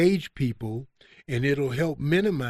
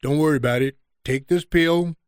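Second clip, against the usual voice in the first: brisk doctor imitation; 6 dB louder than usual. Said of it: "And he says".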